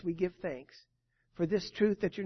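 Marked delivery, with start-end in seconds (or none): 0.0-0.7 softer repeat of the phrase; soft echo. Real, not acted. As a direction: let the words fall back quietly. Verse repeated softly.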